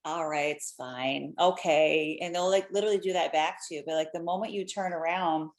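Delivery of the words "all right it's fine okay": imitating a calmed driver. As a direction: play the other driver letting it go, low. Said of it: "they'll literally be like".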